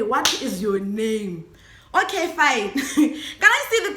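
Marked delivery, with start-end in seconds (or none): 0.0-1.4 slow demand. Retold or imitated. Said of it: "Ke bolela ke re".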